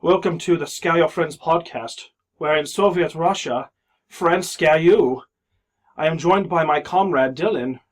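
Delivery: a deliberately terrible fake Russian accent; bad Russian accent. Host greeting podcast listeners as a Soviet comrade, in a mock Russian accent. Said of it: "it's a really terrible accent".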